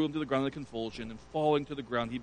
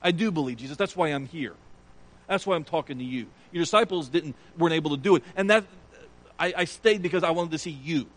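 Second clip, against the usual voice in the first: loud, higher insistent pleading; father insisting to Jesus, loud and pleading; loud plea; 3 semitones higher, 6 dB louder than usual. Retold or imitated. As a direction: insist loudly, begging Jesus. Father's pleading voiced by preacher.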